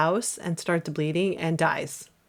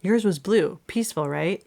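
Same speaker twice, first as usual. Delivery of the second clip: Zooey Deschanel line reading. Acted. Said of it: "And I'm gonna be Alma".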